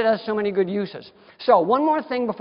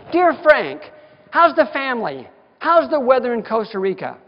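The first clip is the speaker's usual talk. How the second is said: mock chummy greeting; 4 semitones higher, 5 dB louder than usual. Retold friendly note to technician.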